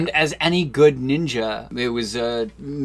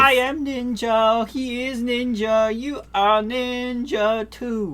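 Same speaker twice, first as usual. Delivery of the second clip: ninja impression; 11 semitones higher, slower than usual. Quoting Ask a Ninja video.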